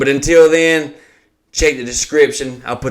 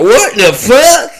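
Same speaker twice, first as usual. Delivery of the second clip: high, loud, slow whiny mock fan voice; high, loud, drawn-out mock whine; whiny fan imitation; 8 semitones higher, 6 dB louder than usual. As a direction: whine it out like a dumb fan begging. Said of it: "he was like".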